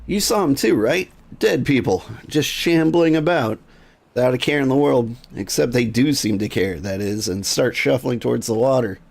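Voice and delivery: lightly voiced frightened villager; spooked NPC. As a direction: sound shaken by what you saw. NPC dialogue read aloud.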